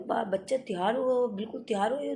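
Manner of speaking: scolding husband. Retold or imitated. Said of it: "उनको गुस्सा करा".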